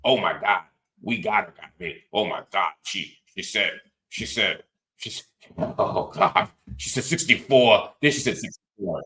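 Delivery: imitating overexcited accusers; mock their breathless disbelief, stumbling over the words; mock shock. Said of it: "they were like".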